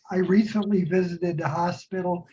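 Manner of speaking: muffled through an oxygen mask. Real, not acted. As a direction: speak through a mask over mouth. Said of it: "I'm talking through an oxygen mask".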